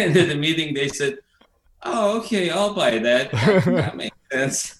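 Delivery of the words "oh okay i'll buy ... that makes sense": high, lightly voiced network censor giving in; mock censor voice. Retelling how the network censors caved, mock high voice. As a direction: play the censor, easily convinced. Censors accepting Pat's made-up story.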